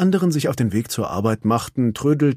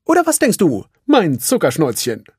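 high, louder doting voice; Felix to his wife; 6 semitones higher, 5 dB louder than usual. A narrator's reading. Felix asks his wife Kalun, high doting voice. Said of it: "Er sah seine Frau, Sergeant Kalun, an".

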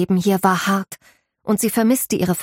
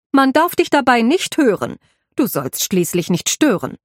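raised housekeeper voice, driving the rule home; insistent warning; 5 semitones higher than usual. Acted. Housekeeper drills the maid on staying unheard, insistent. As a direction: impress it on her sharply. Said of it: "schärfte Afra Habel ihr noch einmal ein".

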